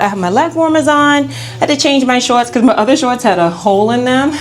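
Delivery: breathless after spinning; slightly winded talk; out of breath. Real, not acted. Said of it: "let me catch my breath".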